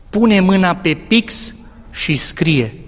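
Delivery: slow, hushed inner voice speaking close to the ear; a calm divine voice, unhurried; voice of God. Retold or imitated. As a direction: deliver it slowly like a wise teacher whispering an instruction. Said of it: "aud o voce care mi-a zis așa".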